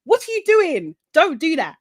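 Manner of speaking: mock scolding. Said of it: "it was fucking Hannah".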